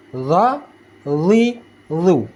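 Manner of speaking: "Za, zi, zu" with lifted tongue root; heavy voiced TH in "Za, zi, zu"; thick za. Shown as a demonstration. Teacher asking learners to feel it, "Za, zi, zu" thickened. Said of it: "Rasakan apakah naik pangkal lidah?".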